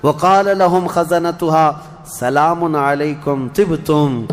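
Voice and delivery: slow chanted Arabic verse; Quranic recitation. Acted. Preacher reciting the gatekeeper's greeting, slow and chanted. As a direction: intone it, drawing out each word.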